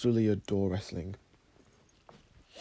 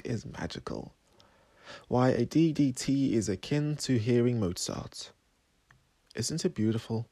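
measured, slightly soft poem recital; poetry reading; 4 dB quieter than usual. Acted. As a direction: recite your own poem with pauses between phrases. Reads own poem aloud.

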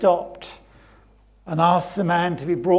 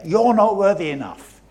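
loud, raised accusation; accusing enemy; 7 dB louder, faster than usual. Acted. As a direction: hammer home that they are unworthy. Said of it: "biggest lies the enemy will try".

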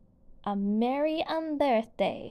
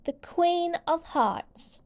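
much higher proclaiming announcement; herald's call; 7 semitones higher, slower than usual. A narrator's reading. White Rabbit announces the Queen to the court, proclaiming high. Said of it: "called the White Rabbit".

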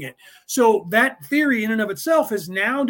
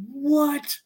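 amazed what; 7 semitones higher than usual. Retold or imitated. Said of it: "and he went".

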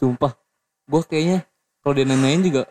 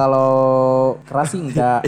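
speaking up. Real, not acted. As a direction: speak up so it carries. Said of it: "ngomongnya yang kenceng".

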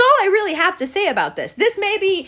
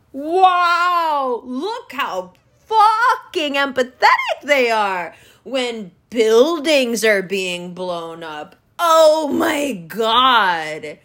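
sarcastic mock awe; 3 semitones lower, much slower than usual. Mocking the media's sudden empathy.

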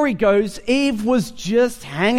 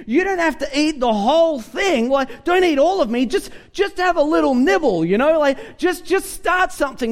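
lightly voiced tempting donut, a little higher; 5 semitones higher than usual. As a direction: coax like a sweet treat. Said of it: "the donut says to you".

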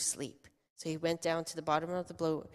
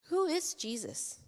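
awed whisper; slower than usual. Acted. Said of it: "And they're like".

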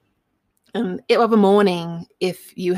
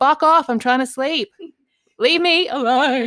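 grumpy snap; 7 semitones higher, 3 dB louder than usual. Retold or imitated. Voicing herself at night.

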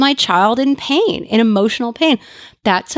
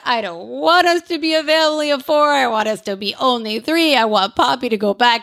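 put-on upset four-year-old; 3 semitones higher than usual. Four-year-old protesting new baby sister, lightly childlike. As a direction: mildly voice a sulking little girl. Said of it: "fell down on the floor and said".

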